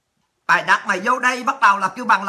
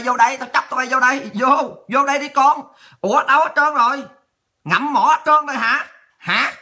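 raised, goading call-out; taunting challenge; 2 semitones higher than usual. Real, not acted. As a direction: dare absent foes to step in. Calls absent opponents to come and fight. (thách thức, khiêu khích)

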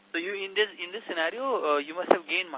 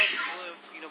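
faint, far from the mic; barely audible; 6 dB quieter, much slower than usual. Real, not acted. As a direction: voice fading out, hard to hear. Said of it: "Your voice is very faint".

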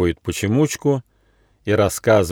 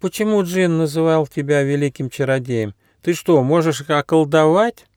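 little hedgehog voice; 6 semitones higher than usual. A narrator's reading. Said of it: "тихо спросил".

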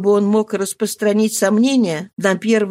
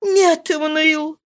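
Marie, slow denial; 8 semitones higher, slower than usual. A narrator's reading. Marie's voice in the reading.

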